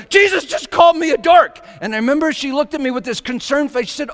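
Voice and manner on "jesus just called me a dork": excited high yell. Retold or imitated. Retelling his yell to Rosemary that Jesus teased him, yelled. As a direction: yell it out at full voice. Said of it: "I yelled".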